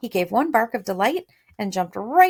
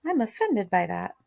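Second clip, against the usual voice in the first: offended; 3 semitones higher than usual. Shown as a demonstration. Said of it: "offended, right?".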